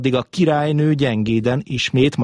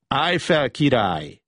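put-on childlike voice; 3 semitones higher than usual. A narrator's reading. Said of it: "kedves gyermeki hangon".

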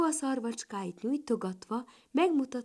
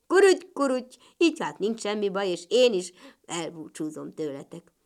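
croaking frog; 2 semitones lower, 7 dB louder, faster than usual. A narrator's reading. Frog child taking leave of two ladybirds, croaking. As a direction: play the little frog, opening with bold croaks.

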